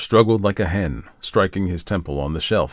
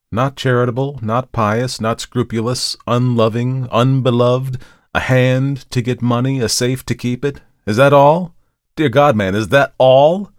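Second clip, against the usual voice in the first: gloomy list building to a loud, high plea; brood, then demand an answer loudly; 6 semitones higher, 6 dB louder than usual. A narrator's reading. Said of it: "returned the other gloomily".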